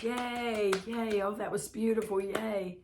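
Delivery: playful imitation of a delighted crowd; mock cheering crowd. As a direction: cheer like an applauding audience member. Crowd cheering the actor's recitation.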